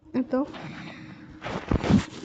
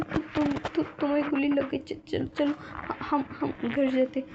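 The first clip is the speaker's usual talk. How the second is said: higher, halting and broken; frightened stammer; 4 semitones higher than usual. Retold or imitated. Wing urging wounded Wang Ji home in a high frightened stammer. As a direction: stumble over every word in fear.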